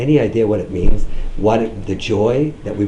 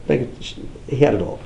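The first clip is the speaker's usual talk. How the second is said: "He had it all" drawn out, quieter; slow and soft; 4 dB quieter, much slower than usual. Shown as a demonstration. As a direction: let it sink in slowly.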